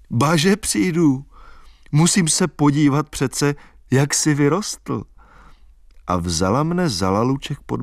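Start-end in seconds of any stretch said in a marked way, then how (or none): 0.1-5.0 put-on higher, lilting young woman dreaming aloud; a wild country girl giddy about dancing; girl's voice full of plans; Albína's girlish voice. A narrator's reading. Albína teasing the boy.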